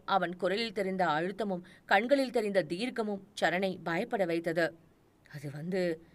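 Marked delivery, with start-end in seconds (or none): 5.3-6.0 hesitant. Acted. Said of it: "Charan தயங்கினான்".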